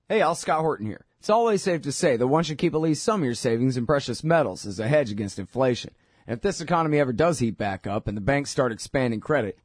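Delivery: upbeat sponsor read in his own voice. Acted. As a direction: sell it like a radio host ad spot. Host reads sponsor ads.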